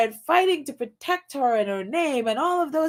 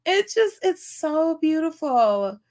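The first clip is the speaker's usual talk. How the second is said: tearful; 3 semitones higher than usual. Real, not acted. Overcome by emotional chat comments.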